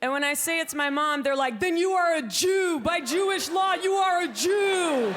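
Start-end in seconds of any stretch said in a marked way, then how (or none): 1.6-5.1 higher, shouted mock pronouncement; triumphant verdict. Comic retelling of people declaring her Jewish by law. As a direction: declare it like a gleeful judge.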